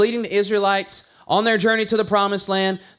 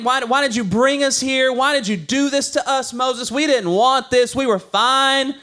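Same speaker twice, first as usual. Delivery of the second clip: higher, drawn-out whine of complaining Israelites; whining; 5 semitones higher than usual. Retold or imitated. Israelites whining at Moses in a higher, slow whine. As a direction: moan it like an ungrateful crowd. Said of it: "they're whining".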